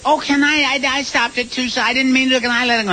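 pleading contestant. Retold or imitated. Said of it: "they'd say".

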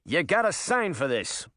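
high, brash little rabbit; pushy small critter voice. Acted.

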